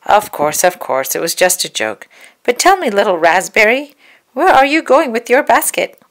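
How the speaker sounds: wolf smoothing over his joke; sly wolf. Acted. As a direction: cover the slip, then fish for her plans. Wolf covers up, fishes.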